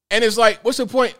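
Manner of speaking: exasperated disbelief. Real, not acted. Exasperated question.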